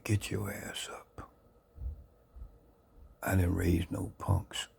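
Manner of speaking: slow, whispered stern mother; stern mother's spirit. Retold or imitated. Mother's spirit scolding her son in bed, slow whisper. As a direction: hush it out like a ghostly scolding mother. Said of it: "She said".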